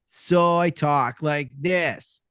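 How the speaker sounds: same character voice slowed right down; slow, chilled-out stoner drawl; stoned skater dude. Acted. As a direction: talk like a zenned-out skater. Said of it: "Same voice, just slowed down".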